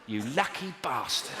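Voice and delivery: understated slow ironic aside; wry self-address. Retold or imitated. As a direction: say it drily to yourself, drawn out. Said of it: "I thought to myself".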